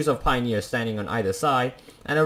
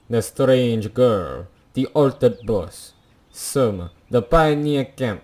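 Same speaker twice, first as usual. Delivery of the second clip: mock Russian accent. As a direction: read the game text in a shaky, unconvincing Russian accent. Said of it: "read the entirety of this in a Russian accent".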